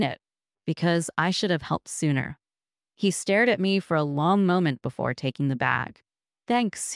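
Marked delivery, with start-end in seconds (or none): 6.5-6.9 lightly voiced wary homeless man; a hint of a gruff mutter; muttered rough thanks. A narrator's reading. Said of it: "he muttered, his voice rough".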